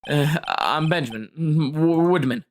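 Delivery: low, halting, nervous mumble; lightly voiced jittery ventriloquist; nervous stammering man. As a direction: stammer it out like a shy performer. Ben introduces himself.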